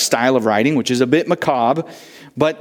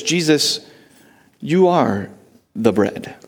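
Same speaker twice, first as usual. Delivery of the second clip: Peter's answer; slower than usual. Acted. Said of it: "He says".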